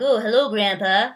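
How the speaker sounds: lightly voiced sweet greeting to a child; cooing movie quote. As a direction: coo it at a little girl. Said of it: "talking to this little girl".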